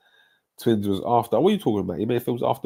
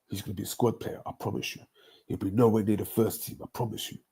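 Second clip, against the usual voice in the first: hushed mock reassurance; 6 dB quieter, faster than usual. Mocking a doubting fan.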